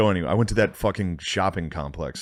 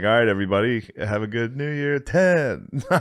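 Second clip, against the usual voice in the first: countdown host; 3 semitones higher than usual. Retold or imitated. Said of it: "be like".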